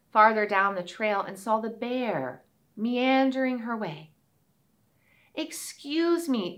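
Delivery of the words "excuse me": put-on little girl voice. Girl speaks to bear.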